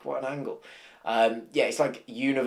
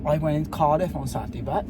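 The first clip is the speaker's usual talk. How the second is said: imitating gym Welsh accent; 5 semitones higher than usual. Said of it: "people from my gym would be like".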